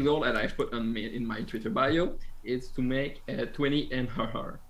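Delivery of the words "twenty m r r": French accent. Real, not acted. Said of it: "My French accent is not happy with M R R".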